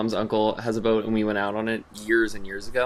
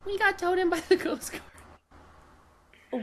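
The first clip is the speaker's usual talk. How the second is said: deadpan drawn-out repeat; much slower than usual. Acted. Repeating punchline for dumb question.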